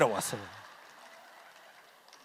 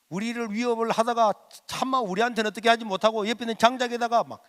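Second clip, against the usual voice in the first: usual speaking voice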